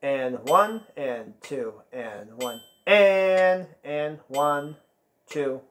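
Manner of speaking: steady rhythmic count over the music; counting the rhythm aloud. Shown as a demonstration. Teacher counts the band through the rhythm, steady and rhythmic. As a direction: keep the beat by counting it out.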